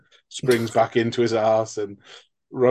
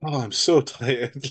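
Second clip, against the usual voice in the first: hammy tired villain; slower than usual. Retold or imitated. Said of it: "felt like Mike Myers acting".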